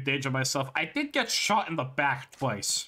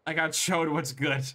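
talking through laughter; laughing; 3 semitones higher than usual. Real, not acted. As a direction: admit it while laughing. Laughing at own mistake.

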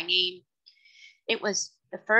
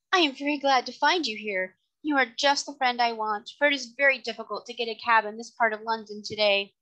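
gracious, pleased lady; 4 semitones higher than usual. Acted. Voices the lady.

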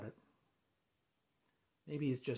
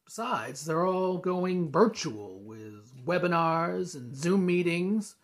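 louder, building in pitch to the end; exasperated venting; 2 semitones higher, 7 dB louder than usual. Acted. Venting about lost event business.

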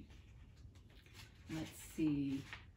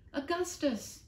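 high, loud cry of a name; frantic call; 11 semitones higher, 4 dB louder, slower than usual. Acted. Avril searching the smoke for Augustus, a high frantic call. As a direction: call out in panic. Avril calls for the lost dog.

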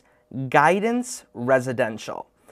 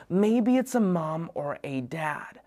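soft unvoiced whisper, slower; 3 semitones higher, 6 dB quieter than usual. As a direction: whisper it like a secret. Listing role models, sudden whisper.

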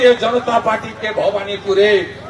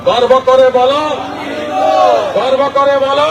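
louder rally call, with pride. Shown as a demonstration. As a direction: lift the crowd, say it louder. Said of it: "জোরে বলুন". (জোরে, গর্বের সঙ্গে বলা)

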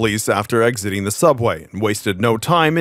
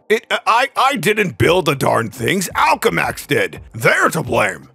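flustered mayor; 2 semitones higher, slower than usual. A narrator's reading. Jameson shifts blame before the press, flustered.

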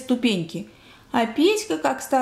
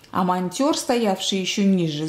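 ordinary delivery, nothing marked

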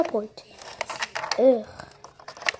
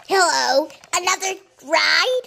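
dispatcher voice; 3 semitones higher, 4 dB louder than usual. Pretend. Voicing taxi dispatcher.

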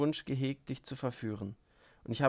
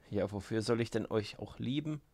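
biting. Acted. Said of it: "bemerkte bissig Rakitin".

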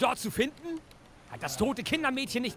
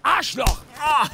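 furious outburst; 2 semitones higher, 8 dB louder, slower than usual. Acted. Enraged father hurls an insult at the policeman, loud furious yell.

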